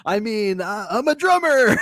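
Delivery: very high, squeaky-pitched impression; hammed-up falsetto claim; put-on character voice. Playing the imagined interviewee, high comic falsetto.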